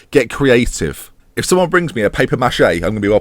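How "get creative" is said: assertive. Pretend. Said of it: "assertively say".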